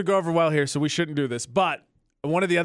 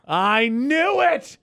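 slow, loud I-knew-it; gleeful gotcha; triumphant; 7 semitones higher, 5 dB louder, much slower than usual. Real, not acted. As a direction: call it out in triumph. Catching a confession.

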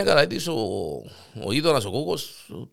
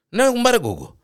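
high neighbour reply; 10 semitones higher, 4 dB louder than usual. Acted. Panagiotis answers, high voice.

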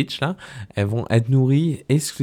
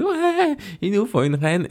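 excited; 12 semitones higher than usual. Retold or imitated. The hive excitedly demanding a queen.

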